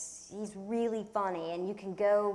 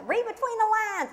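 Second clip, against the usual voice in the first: high, loud flirty squeal; coy Piglet, pitched way up; 14 semitones higher, 8 dB louder than usual. Pretend. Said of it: "Can you do your Piglet impression".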